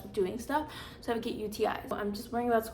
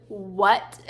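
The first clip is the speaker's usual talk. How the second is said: shocked what; 8 dB louder than usual. Retold or imitated. Teacher shocked at blood news.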